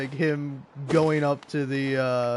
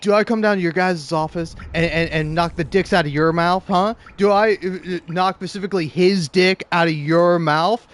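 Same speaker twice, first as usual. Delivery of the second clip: mock boss tirade; 3 semitones higher, 6 dB louder than usual. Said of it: "it's like".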